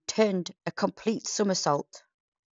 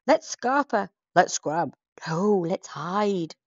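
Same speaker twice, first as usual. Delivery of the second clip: louder scared rush, slowing at the end; panicked pirate; 4 dB louder, slower than usual. Acted. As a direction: scramble to get away.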